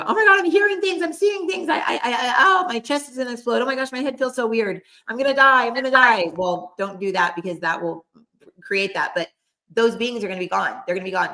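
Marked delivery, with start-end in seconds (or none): 0.0-6.3 high, loud, hammed-up panicking; exaggerated mock terror, much higher and louder; mock panic. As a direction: play someone freaking out, overdone.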